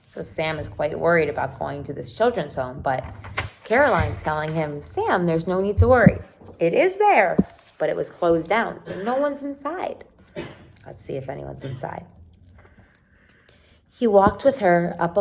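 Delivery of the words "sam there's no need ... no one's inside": lightly voiced girl, a touch higher and coaxing; reassuring Caroline. Caroline reassures Sam about the old picture, mildly higher voice. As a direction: gently talk him out of his worry.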